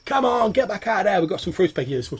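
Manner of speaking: calling down. Acted. Goblin calling his mate up the trapdoor, loud. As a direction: shout it down the hole. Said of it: "he, like, sticks out".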